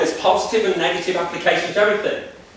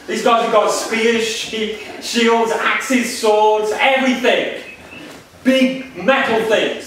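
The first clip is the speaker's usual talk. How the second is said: King Saul; 3 semitones higher than usual. Retold or imitated. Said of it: "So Saul says".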